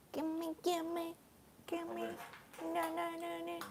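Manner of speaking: high, very soft pleading; hushed begging. Real, not acted. Streamer asking husband for his food, hushed begging. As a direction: beg in a small high voice.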